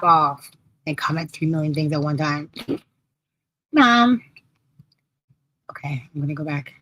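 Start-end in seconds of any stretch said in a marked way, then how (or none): 3.7-4.2 calling out. Real, not acted. Calling out to her mother. 5.7-6.7 whispered aside. Real, not acted. Quick aside after calling Mom.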